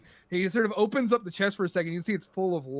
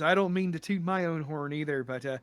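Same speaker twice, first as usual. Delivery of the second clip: lightly voiced Irish accent; touch of an Irish brogue; 3 semitones lower than usual. Pirate boasting to the bartender, light Irish accent. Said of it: "how bad my Irish accent is".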